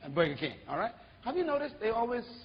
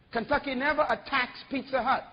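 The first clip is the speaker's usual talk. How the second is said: usual speaking voice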